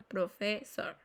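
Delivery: "Profesor" with a single s sound; double letter as one. Shown as a demonstration. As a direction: say "Profesor" softly, double consonant read as one. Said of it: "se lee como una".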